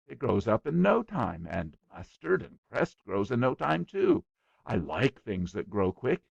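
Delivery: put-on boy bragging to a guest, eager; eager small boy. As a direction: rattle on like a boastful little boy.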